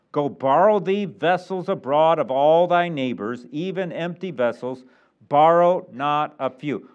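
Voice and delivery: slow, declaimed Bible command; deliberate pulpit recitation; emphatic scripture reading. Acted. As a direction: read it out as a solemn order.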